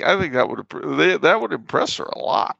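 ordinary delivery

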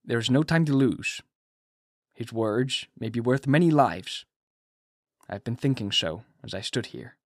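lightly voiced stern old professor, grave; a hint of a grave doctor giving orders; stern Van Helsing. A narrator's reading. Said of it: "His face was sternly set as he spoke".

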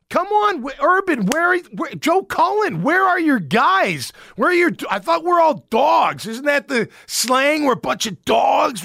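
fired-up frustrated shout at the defense; worked-up rant. Real, not acted. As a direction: demand answers from the team, half yelling. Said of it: "I sound a lot, you know, madder than I am".

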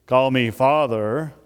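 a touch of stern authority on "Call me Father", Father rising; mock masculine command. Shown as a demonstration. Preacher voicing a stern masculine God he rejects, mock stern. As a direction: voice the wrong idea of God, lightly stern. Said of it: "God's not speaking here in a sense of masculinity".

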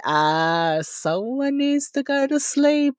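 high, drawn-out singsong teasing; teasing husband. Retold or imitated. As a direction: imitate a husband's knowing hint. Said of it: "I think my husband said".

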